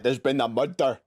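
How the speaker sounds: stock Glasgow accent catchphrase; Scottish accent. Shown as a demonstration. Showing the common impression despite doubts, Scottish accent. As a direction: roll out a rough attempt at Glaswegian. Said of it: "I can't do Scottish".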